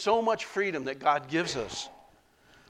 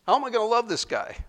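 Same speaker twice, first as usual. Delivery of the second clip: 1 exasperated thought; 8 semitones higher, 4 dB louder, faster than usual. Retold or imitated. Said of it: "I thought about".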